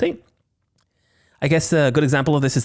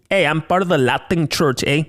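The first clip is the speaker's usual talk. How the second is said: put-on Canadian accent. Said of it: "that sounded more Canadian".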